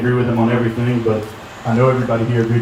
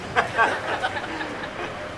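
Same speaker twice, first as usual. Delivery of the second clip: laughing; 11 semitones higher, 11 dB quieter than usual. Real, not acted. Laughs after the punchline.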